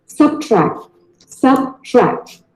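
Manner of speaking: Subtract, the model way; correct pronunciation. Shown as a demonstration. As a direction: Subtract said slowly and softly. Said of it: "It is subtract".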